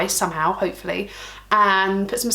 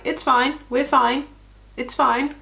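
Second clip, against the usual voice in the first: higher, insistent self-soothing; trying to convince herself; mock reassurance; 4 semitones higher, 4 dB louder, slower than usual. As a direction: reassure yourself in a raised, chirpy pitch. Mock self-reassurance after mishap.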